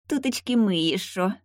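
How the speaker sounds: tiny creaky spirit voice; squeaky little voice. Acted. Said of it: "раздался скрипучий голосок".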